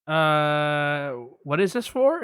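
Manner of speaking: mock receptionist declining. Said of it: "I'm gonna play both parts".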